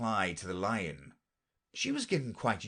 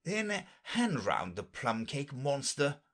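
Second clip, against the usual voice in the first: lion voice; 6 semitones higher, slower than usual. Acted. Lion voiced in read story.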